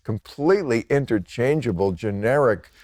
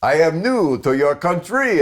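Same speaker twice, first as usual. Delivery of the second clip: put-on a light French accent with the stress on the wrong syllables; mock French accent; 5 semitones higher, 3 dB louder than usual. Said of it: "I could do that accent".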